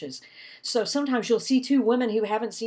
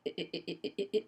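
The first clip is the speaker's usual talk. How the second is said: monotone eh; 6 dB quieter, much faster than usual. Shown as a demonstration. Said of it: "their pitches are like".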